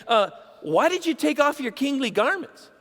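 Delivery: wife scolding David for dancing in his undergarment. Acted. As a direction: demand it like a wife who is mortified.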